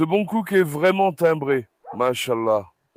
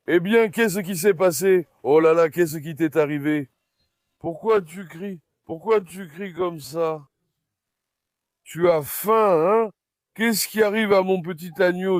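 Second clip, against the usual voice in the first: cooing to a lamb; 4 dB louder than usual. Real, not acted. Talking tenderly to crying lamb. (parle doucement à l'agneau qui pleure)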